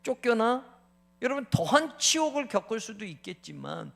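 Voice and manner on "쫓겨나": mocking jeer. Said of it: "이런 조롱도".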